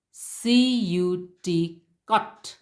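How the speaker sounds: letters "C U T" spelled out slowly, then "cut" with a clipped short U. Shown as a demonstration. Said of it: "Very short".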